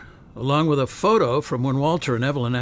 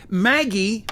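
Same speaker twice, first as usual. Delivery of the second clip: calling out urgently; 7 semitones higher, 4 dB louder than usual. Acted. Urgent call across office.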